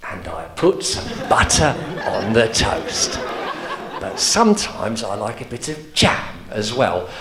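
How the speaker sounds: slow, dull droning of an old sailor, only a hint of a voice; bored old man telling his routine, mildly voiced; lightly voiced old man. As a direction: drone through the breakfast routine like a tedious pensioner. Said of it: "So he'd be there going".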